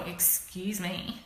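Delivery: a slow indignant excuse me; rude excuse me. Shown as a demonstration. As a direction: let excuse me drag, offended. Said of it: "We usually do it as, like, a rude thing".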